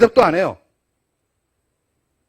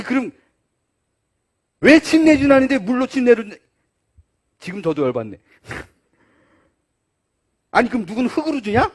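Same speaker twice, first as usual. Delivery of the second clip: ordinary delivery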